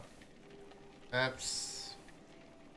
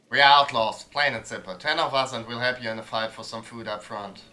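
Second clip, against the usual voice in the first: blunt outlaw woman; 6 dB louder than usual. Acted.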